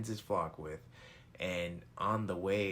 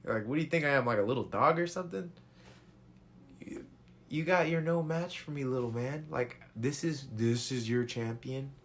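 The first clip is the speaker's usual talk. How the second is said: higher and louder, a taunting brute; scoffing giant, pitched up and loud; mocking giant Goliath; 6 semitones higher, 6 dB louder than usual. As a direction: sneer down at the little man from your full height. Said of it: "Goliath is looking at him like".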